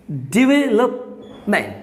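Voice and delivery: डेवलपमेंट very slow, di-ve-lup, then ment; syllable-by-syllable pronunciation. Shown as a demonstration. Teacher breaks the word down for learners, very slow syllables. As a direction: stretch डेवलपमेंट out in separate parts. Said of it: "इसको पढ़ना है".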